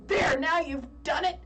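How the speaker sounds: frowning, grumble it in mock outrage; mock mad husband. Husband blaming his wife after taking money, mock mad. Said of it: "he's all mad with this frowning face".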